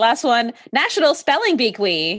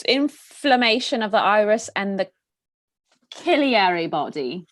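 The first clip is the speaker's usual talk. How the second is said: put-on British accent. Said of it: "Now you went totally British".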